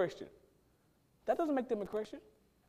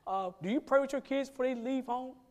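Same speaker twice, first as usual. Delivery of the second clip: pointed question; 4 semitones higher, 5 dB quieter than usual. Retold or imitated. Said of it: "I ask 'em this question".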